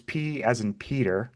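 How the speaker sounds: measured spelling with pauses between letters; slow spelling. Real, not acted. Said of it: "spell my email address slowly".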